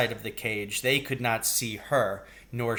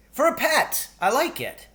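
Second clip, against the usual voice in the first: put-on much higher little boy voice; pleading child; 13 semitones higher, 4 dB louder than usual. A narrator's reading. Billy pleading with his mother for a pet, high child voice. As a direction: plead like a small kid.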